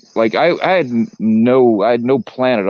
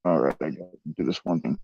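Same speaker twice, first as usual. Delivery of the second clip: voice changer; 5 semitones lower, 9 dB quieter than usual. Real, not acted. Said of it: "your voice changer's broke again".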